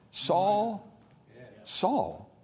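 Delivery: soft, sympathetic calling of the name; merciful call. Shown as a demonstration. God calling Saul by name, softly and mercifully. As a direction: call his name gently, with mercy. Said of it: "There's mercy in that".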